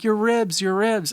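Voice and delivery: alarmed, high-pitched cry of worried parents; panicked shout. Retold or imitated. Parents at the fence shouting at injured boy, panicked. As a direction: yell it in alarm, voice jumping up high.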